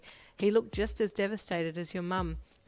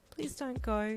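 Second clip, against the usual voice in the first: begging quietly; 4 semitones higher, slower than usual. Acted. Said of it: "she begged quietly".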